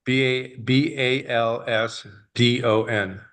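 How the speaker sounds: hoarse, rough-edged speaking voice; spelling it out through a gravelly throat. Real, not acted. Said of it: "I'm sorry for my gravelly voice".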